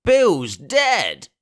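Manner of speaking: high, loud alarmed call; shouting from the house. Acted. Pirate shouts from the house to the road. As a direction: call out the news from inside. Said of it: "a voice shouting from the house".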